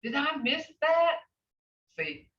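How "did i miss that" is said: higher, surprised student; mock dismay. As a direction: act out missing something.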